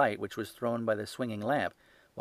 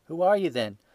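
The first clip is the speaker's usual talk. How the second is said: quavering; 8 semitones higher, 7 dB louder than usual. A narrator's reading. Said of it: "he asked in a quavering voice".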